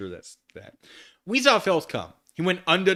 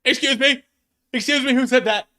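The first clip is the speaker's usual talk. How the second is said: shrill, much higher and louder yell; indignant yell; 13 semitones higher, 12 dB louder than usual. Acted. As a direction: shriek in outrage. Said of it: "yelled Mister Norris".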